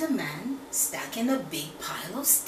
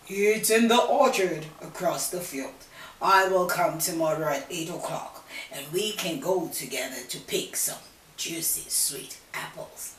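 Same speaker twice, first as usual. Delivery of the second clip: wolf voice; 4 semitones lower, 4 dB louder than usual. Acted. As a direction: coax with juicy apples. Wolf answers.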